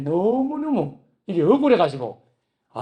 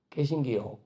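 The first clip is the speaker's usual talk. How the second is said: Gyeongsang dialect; 5 semitones lower, 7 dB quieter than usual. Retold or imitated. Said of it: "경상의 말로".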